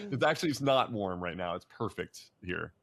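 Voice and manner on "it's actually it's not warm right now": laughing as he corrects himself; laughing correction. Real, not acted. Laughing as he corrects himself to his friend: amused.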